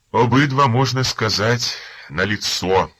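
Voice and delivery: loud, high, gleeful exclaim; joyful exclaim. Acted. Informer gloating to the officers, loud excited exclaim. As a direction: crow with delight. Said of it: "з радістю і піднесенням вигукнув".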